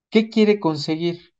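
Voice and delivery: ordinary talk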